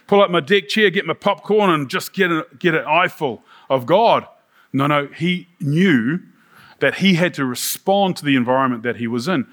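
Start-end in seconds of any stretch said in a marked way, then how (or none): 0.1-4.3 raised, eager spectator voice, easing off; hammed-up delight at a great show; mock excitement. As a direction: act out a thrilled show-goer, tongue in cheek. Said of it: "Did Isaiah say".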